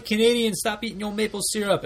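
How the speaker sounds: high mock proclamation to Canadians; mock announcement. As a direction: lecture the Canadians in a silly high voice.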